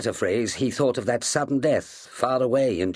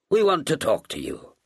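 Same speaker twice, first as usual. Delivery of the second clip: a touch solemn echo, higher; solemn repeat; 8 semitones higher than usual. A narrator's reading. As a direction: echo it gravely. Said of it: "repeated Ross solemnly".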